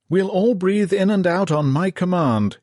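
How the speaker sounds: high, loud commanding shout; yelled order. A narrator's reading. Lieutenant commands the choking men, loud high shout. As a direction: bark the order over the panic. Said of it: "yelled a lieutenant".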